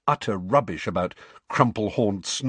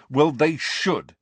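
slow and emphatic, a bit louder; forcefully; 6 semitones higher, 4 dB louder, slower than usual. A narrator's reading. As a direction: insist firmly. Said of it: "said Harry forcefully".

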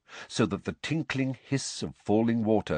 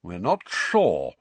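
serious; slower than usual. Acted. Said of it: "said the wizard seriously".

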